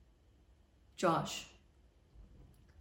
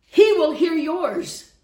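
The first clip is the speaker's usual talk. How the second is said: loud, slow, raised declaration; emphatic preaching; 6 semitones higher, 8 dB louder, slower than usual. Real, not acted. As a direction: drive it home slowly and forcefully. Preaching at full force.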